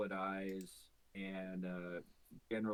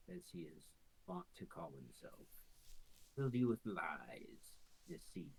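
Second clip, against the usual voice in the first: seductive creature; 5 dB quieter than usual. Acted. Quasit seduces Nualia softly.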